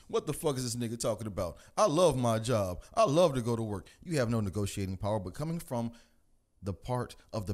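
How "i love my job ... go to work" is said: mock cheery worker. Comic mocking a worker who loves his job, hammed-up and loud.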